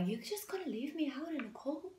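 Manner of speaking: high, wounded plea of someone left behind; hurt partner pleading. Retold or imitated. Hurt partner begs the leaver, high and wounded. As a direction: whine it like the one being abandoned. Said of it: "that person's just gonna".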